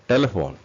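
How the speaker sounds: TE-le-phone, first syllable stressed. Shown as a demonstration. Teacher answers where stress falls, stress on TE. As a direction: hit the TE of டெலஃபோன். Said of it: "டீல வருது".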